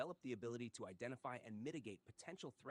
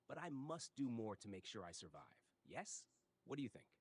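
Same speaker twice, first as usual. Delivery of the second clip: put-on Korean accent. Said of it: "A I with a very thick Korean accent".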